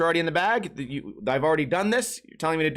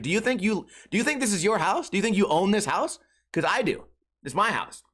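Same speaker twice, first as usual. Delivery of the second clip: retold rude jab; 3 semitones higher than usual. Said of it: "kinda rudely".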